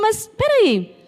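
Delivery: lightly voiced boy, rising in disbelief; bewildered child. Preacher voicing the boy who hears of his father's murder, bewildered. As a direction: ask it like a hurt little boy. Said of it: "Eu imagino aquele menino falando".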